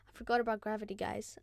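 fast, laughing through the words; quick laughing confession; laughing at himself. Real, not acted. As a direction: giggle it out at your own blunder. Repeats the line plainly after.

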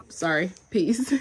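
slow whispered goodbye. Real, not acted. Quiet sign-off near sleeping child.

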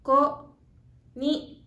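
slow, drawn-out konnichiwa; "Konnichiwa" spoken slowly, syllable by syllable, as a teacher models it. Shown as a demonstration. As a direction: stretch out each syllable of "Konnichiwa" for learners. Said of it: "Let's say it a little slower".

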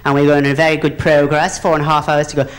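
lightly voiced airline captain; a hint of measured intercom patter; captain's announcement. Captain addressing passengers over the intercom, lightly imitated announcement. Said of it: "on his intercom doing his announcement".

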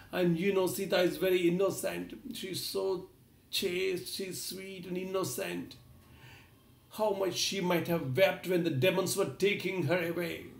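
grieving king pouring out sorrow, understated; crying like a child. Acted. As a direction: Rama lamenting to his brother in mild tearful grief. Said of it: "He was continuing to cry like a child".

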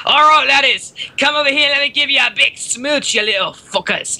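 high-pitched caricature of a friend; mock him with a loud, high "laddies" voice; Trish impression. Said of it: "that's how he talks".

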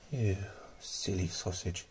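soft, slow affectionate tease; fond chiding. Real, not acted. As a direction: gently scold a beloved pet under your breath. Fondly chiding the pet tarantula.

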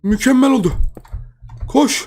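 çok yüksek, telaşlı heyecan; kaçarken nefes nefese bağırır gibi; kovalanıyor. Real, not acted. (kovalanırken heyecanla bağırma)

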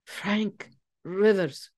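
name the culprit slowly in triumph; triumphant. A narrator's reading. Andre names the culprit to the room, triumphant. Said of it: "said Andre triumphantly".

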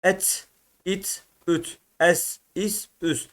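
"Et, it, üt" each closed on a vowelless final consonant; short separate syllables, striking the last consonant; cezimli okunuş. Shown as a demonstration. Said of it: "cezimli okutur". (cezimli heceleri tek tek, son harfe vurarak)

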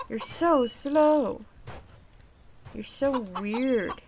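slow, stretched-out words; drawn-out complaint. Real, not acted. Player complaining to the slow creature, drawn out. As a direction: drag out each word in impatience.

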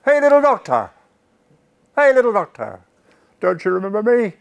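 high, loud call across a bridge; shouted call from the crowd. Retold or imitated. A flower seller shouting to the doctor across the bridge, loud high call. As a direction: call out to him over the crowd noise. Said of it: "a voice from the crowd shouted out".

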